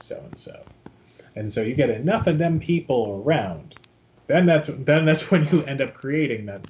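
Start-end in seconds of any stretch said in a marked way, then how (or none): 0.0-0.6 softer, slow meek follower; bow to the master, slowly and softly; devoted follower. Retold or imitated.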